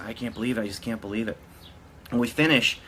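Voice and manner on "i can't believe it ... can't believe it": dazed murmur. Retold or imitated. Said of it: "doing it with, in kind of a haze".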